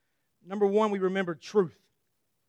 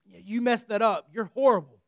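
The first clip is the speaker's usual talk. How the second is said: twisted accusing voice. Retold or imitated. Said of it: "He wants to tell us a twisted".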